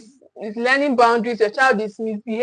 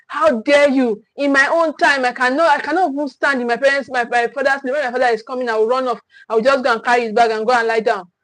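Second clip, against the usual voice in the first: mock offended parent. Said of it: "just take it personal".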